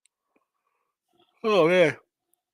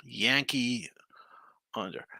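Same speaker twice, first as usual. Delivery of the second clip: whisper; 4 semitones lower, 6 dB quieter, slower than usual. Real, not acted. Reads bet after yawning.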